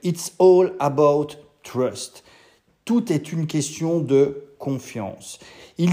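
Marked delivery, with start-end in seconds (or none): 0.0-2.2 put-on French-accented English. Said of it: "je peux te le dire à la limite en anglais".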